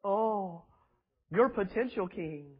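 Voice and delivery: lightly mock the smooth flatterer; mock a famous singer. Preacher mocking a flattering pastor before the king. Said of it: "smiling like Michael Jackson".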